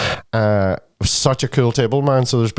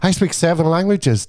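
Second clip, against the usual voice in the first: higher-pitched, excitable boast; retold eager brag, pitched up; excitable man; 5 semitones higher than usual. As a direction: imitate an excitable stranger showing off. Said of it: "he was real excitable".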